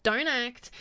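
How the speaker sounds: ordinary delivery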